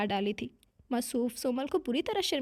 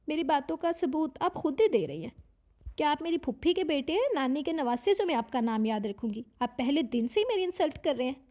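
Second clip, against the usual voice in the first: combative, chewing words; 2 semitones higher than usual. Acted. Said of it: "लड़ाका अंदाज में लफ्ज़ों को चबा चबा कर बोली".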